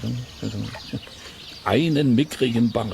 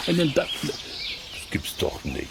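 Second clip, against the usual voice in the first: ungläubiges Staunen; 5 semitones higher, 5 dB quieter, slower than usual. Acted. Angler ungläubig über gefressenen Dackel.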